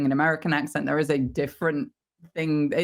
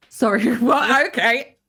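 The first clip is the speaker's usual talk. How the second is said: high, louder mock disbelief; baffled, pitched-up polite acceptance; taken aback; 6 semitones higher, 5 dB louder than usual. Voice actor retelling her reply to a casting call, incredulous.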